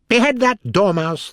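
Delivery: high, loud royal outburst; crying out. A narrator's reading. Queen ordering the Dormouse's execution, crying out. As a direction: shriek the order like an enraged queen. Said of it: "the Queen cried out".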